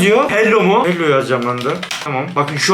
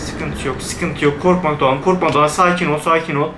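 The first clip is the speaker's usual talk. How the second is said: self-soothing; 4 semitones lower than usual. Real, not acted. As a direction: talk yourself down gently. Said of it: "calming himself down".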